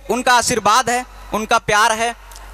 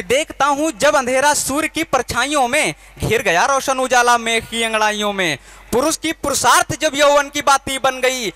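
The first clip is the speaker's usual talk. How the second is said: poem declamation. Acted. Poet reciting his revolutionary poem to the crowd, impassioned declamation.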